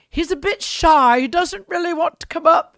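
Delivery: high, loud mock-pitying pirate; hammed-up sarcastic announcement. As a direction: imitate a stage pirate ribbing a volunteer. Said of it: "just being sarcastic".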